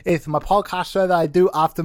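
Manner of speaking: lightly voiced twelve-year-old; chirpy kid show host. Child host opens his show.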